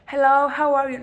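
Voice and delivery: bright, loud put-on English hello; mock English accent. Shown as a demonstration. Speaker demos English at home, loud put-on accent. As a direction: show off a showy English accent. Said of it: "No es que pronuncio así".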